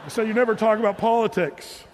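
said through a laugh. Real, not acted. Pastor teasing about grandma, laughing.

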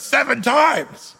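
slow, loud, every word weighed; emphatic Jesus. Acted. Jesus insisting on forgiveness, slow and emphatic. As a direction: hammer home "Seven times" slowly. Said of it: "Jesus says".

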